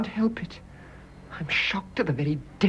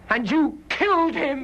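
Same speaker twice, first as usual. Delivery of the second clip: accusing; 6 semitones higher than usual. Acted. Nurse accuses the wife of murder.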